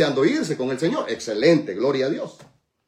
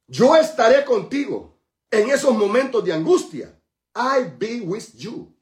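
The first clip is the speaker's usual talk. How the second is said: high, raised preacher's voice; loud start, slowing into a stretched ending; proclaiming God's promise; 8 semitones higher, 6 dB louder, slower than usual. Acted. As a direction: declare it to the whole congregation.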